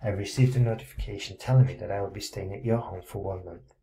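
ordinary delivery

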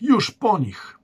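high, loud cry of dismay; horrified cry. Acted. Boy sees the warriors burned, crying out in horror. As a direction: gasp it out as they are lost.

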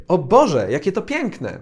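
delighted. Shown as a demonstration. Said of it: "Coś, z czego się cieszymy".

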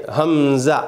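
हमज़ा with a clean glottal start; hamza stop. Shown as a demonstration. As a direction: clip the start of हमज़ा in the throat. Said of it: "हमज़ा बुलाना नहीं". (हमज़ा गले से)

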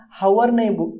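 "हावर" starting on an audible H, as the wrong form; wrong pronunciation, H sounded. Shown as a demonstration. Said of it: "हम हावर नहीं बोलते". ("हावर" में ह की आवाज़ के साथ)

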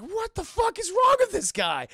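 hammed-up panic; mock panicked yell. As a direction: shout it while ducking fire. Claw under fire.

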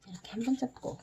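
soft whisper while folding. Real, not acted. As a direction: whisper under your breath. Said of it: "whispering while folding".

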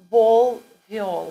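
Vol loud and hard, viol soft with a y-glide. Shown as a demonstration. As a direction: stress the Vol and viol contrast. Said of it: "You see how it works with the V".

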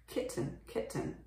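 kitten with a reduced, vague second vowel; natural pronunciation. Shown as a demonstration. Teacher giving the word for baby cat, natural pronunciation. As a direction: say kitten as KIT-n, swallowing the e. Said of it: "本当はkitten".

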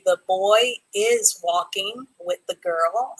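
slow, even dictation of the sentence; "The boy is walking with the girl." read slowly, with no extra weight on "is". Shown as a demonstration. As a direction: read it out word by word for the class. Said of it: "I need for you to add the word "is".

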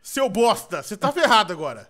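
loud, indignant outburst; heated threat. Real, not acted. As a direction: threaten a teammate loudly. Ameaça ao colega no jogo. (ameaça alta e indignada)

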